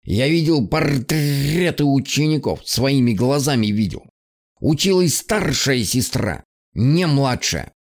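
lightly voiced croaking raven, slow and displeased; a hint of a grumbling old bird; grumpy raven. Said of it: "недовольно каркнул ворон".

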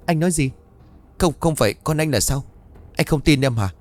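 wounded bride fighting back tears; tearful protest. Acted. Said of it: "Chàng nói trong nước mắt".

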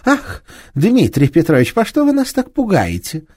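high, loud frightened exclamation; a young woman's startled outcry; startled cry. A narrator's reading. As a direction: gasp it out, caught off guard. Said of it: "Она вскрикнула".

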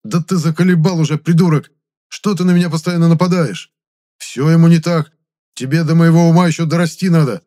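high, loud furious yelling; a ghost snapping and shouting at his mocking friend; exploding in fury. A narrator's reading. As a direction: blow up and yell at him. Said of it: "а Моня взорвался".

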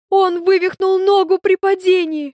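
ordinary delivery, nothing marked

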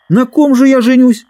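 as if it's absurd news; incredulous. Acted. Dick incredulous about marriage.

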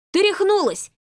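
high, loud cry of pain; pained yell. A narrator's reading. Marquis yelling at Lola after the hair pull, loud. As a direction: yelp it out after hair pulled. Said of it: "завопил он".

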